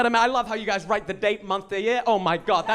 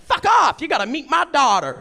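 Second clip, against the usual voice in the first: much higher, louder thrilled gush; excited Ohio local; 6 semitones higher, 5 dB louder than usual. Retold or imitated. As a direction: squeal it like meeting a celebrity.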